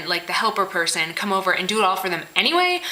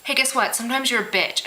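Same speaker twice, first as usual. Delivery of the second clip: straightforward, pitched up, no hedging; blunt and direct; 3 semitones higher than usual. Shown as a demonstration. Friend telling the truth, blunt and direct. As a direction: say it plainly to their face. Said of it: "Just say".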